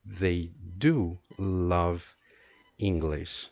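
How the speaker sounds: slow, measured line leaning on "do"; emphatic DO, then settle low on English; emphasis on DO. Shown as a demonstration. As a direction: stretch and stress the word "do". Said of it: "if you want some emphasis".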